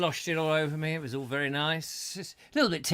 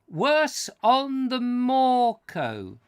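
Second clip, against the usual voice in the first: put-on comic voice; 9 semitones higher, 5 dB louder, much slower than usual. Reading viewer comment in voice.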